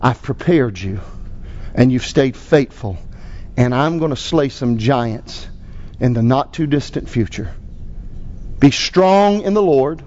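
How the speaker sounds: pastor's closing prayer. Acted. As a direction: lead the congregation in prayer.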